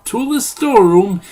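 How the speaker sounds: put-on high, loud triumphant cry in an Eastern European accent. A narrator's reading. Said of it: "he said triumphantly".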